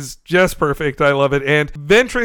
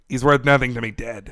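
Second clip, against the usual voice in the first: gruff bounty hunter; 4 semitones lower, 4 dB quieter than usual. Retold or imitated. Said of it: "that's how he should sound".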